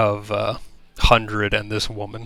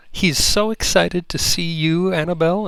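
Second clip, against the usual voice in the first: excited greeting; 7 semitones higher than usual. Acted. Dryad greets the child happily.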